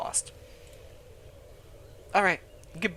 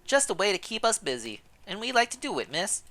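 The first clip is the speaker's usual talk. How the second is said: put-on a friendly old servant, pitched up; old housekeeper; 4 semitones higher than usual. Housekeeper Gilberte greeting the newcomer, high old woman voice.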